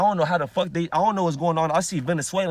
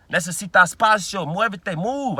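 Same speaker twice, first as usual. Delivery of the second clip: the same Spanish, now louder and insistent; louder repeat; 3 semitones higher, 6 dB louder, slower than usual. Retold or imitated. Telling a stranger to back off, a louder insistent repeat. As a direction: push harder the second time. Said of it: "I had to tell the motherfucker".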